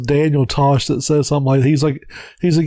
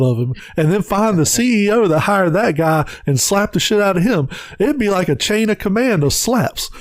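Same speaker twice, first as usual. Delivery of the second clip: mock worker Mark; 5 semitones higher than usual. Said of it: "He's like".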